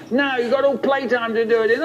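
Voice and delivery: high, rapid teacher's refusal; strict teacher. Acted. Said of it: "And she'd say".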